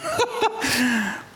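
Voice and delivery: high-pitched laugh; short burst of high laughter. Real, not acted. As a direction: let out a high, amused laugh. Jokes that the point hits home.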